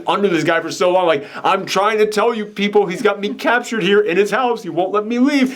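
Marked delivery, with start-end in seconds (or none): 1.4-5.5 higher, pleading imitation of her; retold plea. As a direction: voice her trying to convince people. Voices trapped woman pleading.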